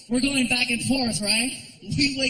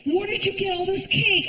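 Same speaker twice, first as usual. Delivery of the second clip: much higher, indignant woman's voice; girlfriend voice; 9 semitones higher than usual. Retold or imitated. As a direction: play the shocked girlfriend, pitched way up.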